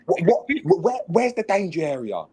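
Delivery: high mock coach tripping over words; stuttering coach. Coach quizzing player about danger area, high mock stammer. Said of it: "he's gone".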